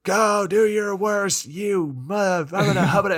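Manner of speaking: hammed-up challenge to do their worst; mock villain taunt. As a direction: dare them in a cartoonish high voice. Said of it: "he's just like".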